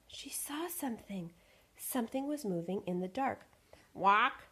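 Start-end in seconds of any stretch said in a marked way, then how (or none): 3.9-4.5 loud happy honk "Walk!"; happy shout. Acted. Goose spots movement, happy shout. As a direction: call out gladly. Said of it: "she shouted happily".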